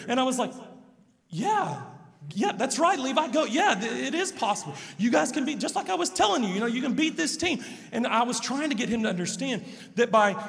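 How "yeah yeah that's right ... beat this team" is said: higher, eager cheering-on; retelling a dad's hopeful pep talk; encouraging dad. Retold or imitated. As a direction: pump the kid up, rising with excitement. Father encouraging son before game.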